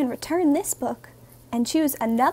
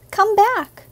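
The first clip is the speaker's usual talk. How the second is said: calling out; 6 semitones higher, 6 dB louder than usual. Acted. Calling after runaway puppy.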